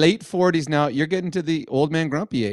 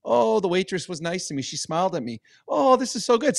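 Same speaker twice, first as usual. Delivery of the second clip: soft, wistful inner voice; dreamy reminiscing; 8 dB quieter than usual. Acted. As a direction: drift quietly into a fond memory. Voicing his fond reverie.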